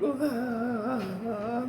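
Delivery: long, high, soft "ahh"; drawn-out groan. Retold or imitated. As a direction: let out a long high moan, held softly. Imitates own reaction to energy.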